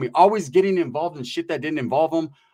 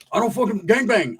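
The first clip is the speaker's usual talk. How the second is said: higher acted denial in an open voice; homeboy without squeak; 5 semitones higher than usual. High homeboy failing to recognize an old cellmate, raised-pitch denial. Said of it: "But he didn't talk like that".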